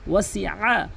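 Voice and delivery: ওয়াসিআ with the আ pressed from the middle of the throat; correct ain. Shown as a demonstration. Teacher models the ain for students. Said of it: "ওয়াসিআ চাপ দিয়ে বলবেন হলকের মাঝখান থেকে".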